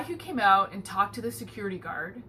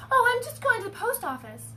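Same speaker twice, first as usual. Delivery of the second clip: imitating the lady; 13 semitones higher than usual. Voicing the lady in line.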